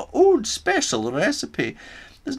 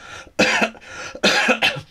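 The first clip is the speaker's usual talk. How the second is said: groaning cough; 13 semitones higher than usual. Acted. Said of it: "was the only reply".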